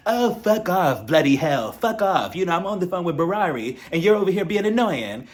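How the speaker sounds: mock fed-up scolding of a pestering husband; imitating a fed-up wife brushing him off; telling him off. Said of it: "she's going back at Sergio".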